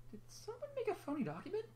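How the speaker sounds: high, thin nurse voice, puzzled; nurse calling out. A narrator's reading. Nurse calls out over the test results, high and puzzled. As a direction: pitch way up like a worried pony nurse. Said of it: "she called out".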